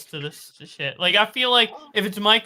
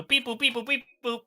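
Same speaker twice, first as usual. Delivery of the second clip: quiet robotic beep boop; 3 semitones higher, 8 dB quieter than usual. Retold or imitated. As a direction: play a little robot. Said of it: "an A I generated exposed video".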